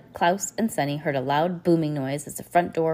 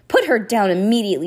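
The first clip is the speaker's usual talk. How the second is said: louder angry shout; 4 semitones higher, 7 dB louder than usual. A narrator's reading. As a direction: yell at the beast. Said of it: "Klaus shouted".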